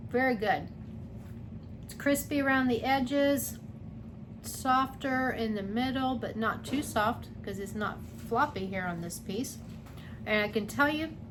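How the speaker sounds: talking with a mouth full of pizza; chewing while talking, mouth full. Real, not acted. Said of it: "sorry, talking with my mouth full".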